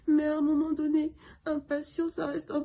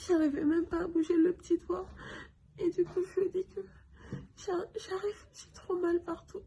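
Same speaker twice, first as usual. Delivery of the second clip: crying; 3 semitones higher than usual. Real, not acted. Tearful retelling of ER ordeal.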